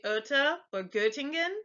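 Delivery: Oeta and Göttingen with the rounded vowel of "word"; German ö sound. Shown as a demonstration. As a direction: model the ö in Oeta, Göttingen clearly. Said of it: "like the O in word".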